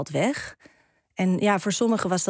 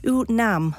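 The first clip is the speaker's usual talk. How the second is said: lightly voiced stuck prayer; 4 semitones higher, 3 dB louder than usual. Demented woman repeating prayer words.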